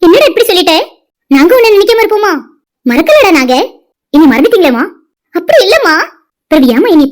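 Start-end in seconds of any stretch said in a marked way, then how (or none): 4.1-4.8 put-on a hurt child sobbing out the complaint; crying reproach. Lost daughter reproaches mother in dream. 5.3-5.9 pleading through tears; a mother sobbing her denial; crying plea. Acted. Mother pleads with daughter in dream.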